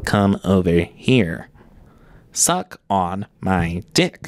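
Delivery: robotic, mechanical synthesized speech voice. Imagining how a disabled man would say this, in his robot voice. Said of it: "You can't imagine his robot voice".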